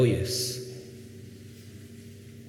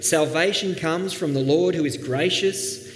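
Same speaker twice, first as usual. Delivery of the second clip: joyful proclaiming; 5 semitones higher than usual. Pretend. Jonah on the mountaintop inviting the world to worship, rising joy. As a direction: build to a rapturous invitation. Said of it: "he could have been sitting on the mountaintop saying".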